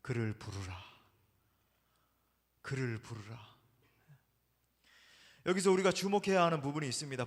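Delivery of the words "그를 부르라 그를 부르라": low, soft and gentle command; merciful voice. Retold or imitated. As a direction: call him gently, full of mercy. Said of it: "가장 자비로운 목소리로". (가장 자비로운 목소리로 부르는 예수님)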